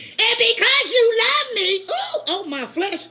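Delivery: God speaking slowly, drawn out, with a laugh; slow intimate God voice. Acted. God speaking to his bride, slow and teasing. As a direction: draw it out like a lover calling his bride. Repeats God's line slower.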